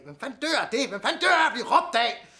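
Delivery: high, loud, laughing disbelief; incredulous laughing outburst. Acted. Man over the dead woman, hysterical laughing disbelief.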